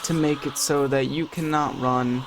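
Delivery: slow, hushed dramatic narrator; mock-solemn narration. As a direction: narrate your own downfall gravely, with long pauses. Mock-solemn narration of his death.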